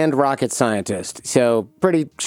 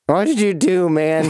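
higher-pitched woozy questioning; loopy on gas; 5 semitones higher than usual. Retold or imitated. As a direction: imitate a gassed-up patient butting in. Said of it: "once it kicks in".

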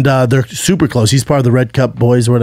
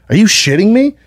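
retold indignant comeback, pitched up; incredulous arguing; 7 semitones higher than usual. Trainer answering back to the comedian, indignant. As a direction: mimic someone outraged at a friend. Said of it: "he starts arguing".

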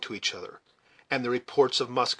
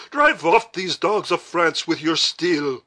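loud, slow, fierce command; raised commander's cry, drawn out; shouted battle order; 6 semitones higher, 6 dB louder, slower than usual. A narrator's reading. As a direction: shout the troops into the charge.

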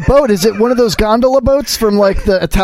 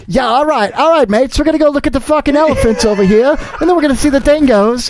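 mock Australian guide; 5 semitones higher than usual. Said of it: "He's like".

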